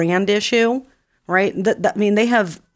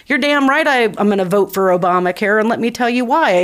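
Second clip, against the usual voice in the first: confident campaign pitch; 3 semitones higher than usual. Shown as a demonstration. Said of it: "how about you say this?".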